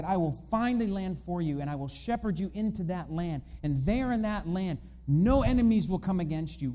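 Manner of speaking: lightly acted divine pledge; emphatic promise. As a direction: build a list of promises, each one punched. Voicing God's promise to Israel.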